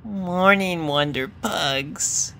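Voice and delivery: soft, slow, high coo; a tender morning greeting, drawn out. A narrator's reading. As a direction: coo a gentle good morning. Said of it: "and cooed".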